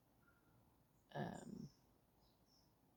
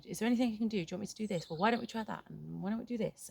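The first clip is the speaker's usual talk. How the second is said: eager fixer; 4 semitones higher, 3 dB louder, faster than usual. Retold or imitated. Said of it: "my automatic response is to try and fix it and go".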